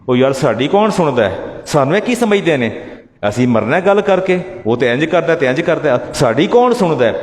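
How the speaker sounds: Punjabi grumbling, a touch mocking; mild Punjabi mock grumble; mocking complaining layman. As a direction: mimic the congregation's whiny excuse. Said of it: "آپ بھی کہتے ہیں".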